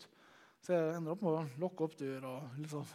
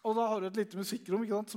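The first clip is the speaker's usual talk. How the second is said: ordinary delivery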